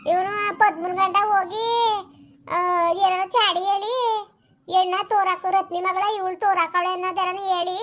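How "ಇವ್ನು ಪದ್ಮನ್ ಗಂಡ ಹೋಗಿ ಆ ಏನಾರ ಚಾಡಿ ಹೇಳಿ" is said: slow, crying as she complains; slow sobbing grievance; tearful complaint. Acted. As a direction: wail it out through tears. Woman complaining about her daughter being beaten.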